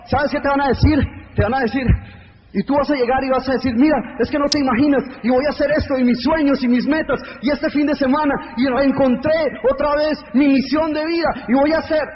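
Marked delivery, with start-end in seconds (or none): 3.7-12.0 higher, eager rush of plans; excited dreamer. Pretend. You telling your family about your dreams, excited and higher. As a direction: gush your dreams like a freshly inspired fan.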